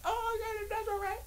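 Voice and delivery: very high falsetto, mildly impressed; mock falsetto. Reacting to watching the movie, very high falsetto. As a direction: squeak out a lukewarm verdict. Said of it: "I said".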